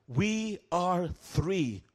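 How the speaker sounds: very slow dragged demon voice; deep guttural demon voice. Retold or imitated. Demon answering how many remain, slow guttural. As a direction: drawl it low and menacing. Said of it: "deep, guttural voice said".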